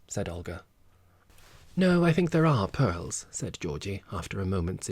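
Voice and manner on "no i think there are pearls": high, loud and slow; slow, emphatic, higher and louder; eager insistence. Acted. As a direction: press the point eagerly. Georgie insists after concentrating.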